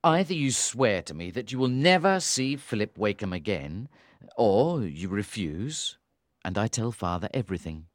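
low, cold male voice; icy brotherly ultimatum. A narrator's reading. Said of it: "said coldly".

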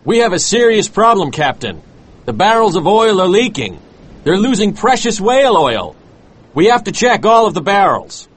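high, urgent worried first mate. A narrator's reading. First mate warns his captain of leaking barrels, worried. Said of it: "He was worried and said".

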